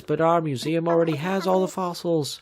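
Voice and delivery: a hint of a fed-up museum owl. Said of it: "the owl looks and says".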